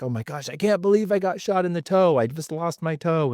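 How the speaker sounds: mock distraught whine; mock despair. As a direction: play the self-pitying victim, half-joking. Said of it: "I could be like".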